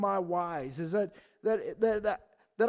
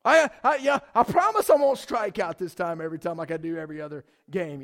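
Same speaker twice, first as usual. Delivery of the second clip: retold begging; 3 semitones lower, 5 dB louder than usual. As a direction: act out a kid's desperate plea to be picked. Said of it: "begging somebody to pick me".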